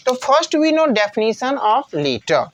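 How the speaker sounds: very slow, spaced words; deliberate classroom dictation. Shown as a demonstration. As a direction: say it slowly for students to note down. Teacher announcing the next definition.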